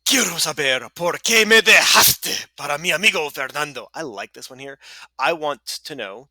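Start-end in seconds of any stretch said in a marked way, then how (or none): 0.1-3.9 higher, louder hammed-up pleading; dramatic jilted boyfriend. Miguel asking why Isabel left him, mock dramatic. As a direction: demand an answer with mock heartbreak.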